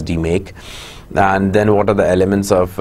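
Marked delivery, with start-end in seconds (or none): 0.0-0.5 "D make" said as DEE-make; pronounced D-make. Shown as a demonstration. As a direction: say "D make" with second part like "make". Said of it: "we pronounce it as".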